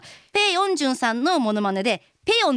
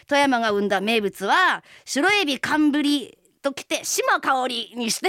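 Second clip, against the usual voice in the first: lines spelled out slowly, word by word; a coach slowly feeding her the self-introduction; slower than usual. Retold or imitated. A coach dictating the intro to the singer, slow and deliberate. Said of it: "とか言って".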